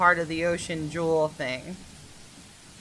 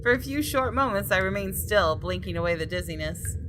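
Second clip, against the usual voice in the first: story narration. A narrator's reading. Reads game text aloud.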